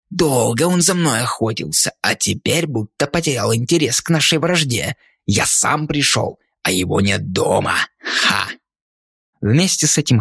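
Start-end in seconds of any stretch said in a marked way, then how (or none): 0.1-8.5 gloating ghoul. Acted. Rotting man gloats at the door.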